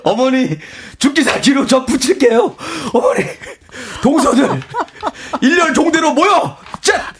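high-pitched drill-sergeant commands; hammed-up manly barking of orders; macho tough guy. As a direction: order the in-laws around like troops. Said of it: "상남자가 됐네".

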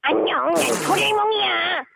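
high cartoon robot-cat voice; chirpy high cartoon character; Doraemon voice. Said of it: "도라에몽 들어볼게요".

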